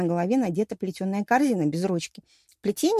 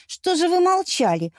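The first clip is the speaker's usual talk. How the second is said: higher, slow mild reproach; reproachful; 10 semitones higher, 4 dB louder than usual. A narrator's reading. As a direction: gently scold the nurse. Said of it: "укорила я Альфину".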